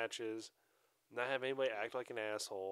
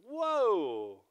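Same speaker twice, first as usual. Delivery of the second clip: calming tone; 3 semitones higher, 18 dB louder, much slower than usual. Retold or imitated. Calming down rival coach.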